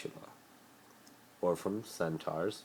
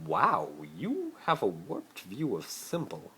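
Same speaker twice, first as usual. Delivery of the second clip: lightly raised, haughty schoolboy voice; a hint of a posh rich boy pleading; Malfoy voice; 5 semitones higher, slower than usual. Malfoy pleading with Harry to play his boyfriend, lightly voiced.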